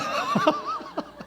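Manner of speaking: high real laugh; amused high-pitched laughter. Real, not acted. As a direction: burst out laughing at own joke. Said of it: "웃으면서 얘기를 합니다마는".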